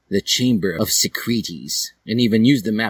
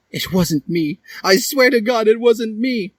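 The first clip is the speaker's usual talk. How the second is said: Hiei's denial; 4 dB louder than usual. Acted. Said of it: "show his true colors".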